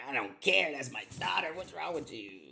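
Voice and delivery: high, loud, protesting outburst; re-enacted indignation. Father defending his daughter in a retold quarrel, indignant. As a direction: argue back with pitch jumping up, playing it up.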